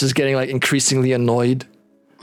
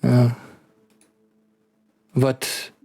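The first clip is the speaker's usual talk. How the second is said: put-on measured, halting French-accented doctor voice. Doctor discussing curses and diseases, hesitant French accent. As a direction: hedge carefully in a light French accent.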